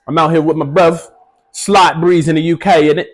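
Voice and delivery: put-on London roadman accent; mock British roadman slang voice. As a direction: play a swaggering UK roadman. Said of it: "I'm back on my U K roadman thing".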